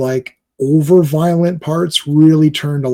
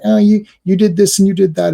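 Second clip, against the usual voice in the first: higher, mocking imitation; annoying nagging reporter; 6 semitones higher, 3 dB louder than usual. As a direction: mimic an irritating interviewer, pitched up. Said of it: "Lois is annoying, and she's like".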